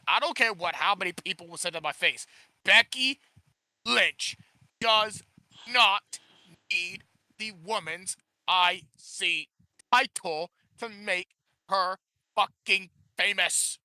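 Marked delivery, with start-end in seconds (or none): 2.6-13.8 slow, stiff robot voice, word by word. Acted. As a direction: speak like a robot, one word at a time. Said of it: "Why are you talking like a robot?".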